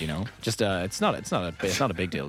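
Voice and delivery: put-on lightly American psychoanalyst accent. Co-host soothing a contestant in a mock American psychoanalyst accent. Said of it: "weird psychoanalyst accent".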